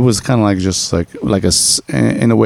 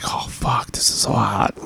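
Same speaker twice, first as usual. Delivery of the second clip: soft breathy murmur, much softer; murmured quote; 2 semitones higher, 7 dB quieter than usual. Retold or imitated. Quoting his partner's soft aroused murmur. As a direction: half-whisper it, turned on.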